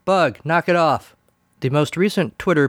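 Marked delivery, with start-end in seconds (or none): 0.0-1.2 firm, slow scold aimed at the dog; a real mild scolding of a barking dog. Real, not acted. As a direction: tell the dog off, slowly and firmly. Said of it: "Pardon me while I scold my dog".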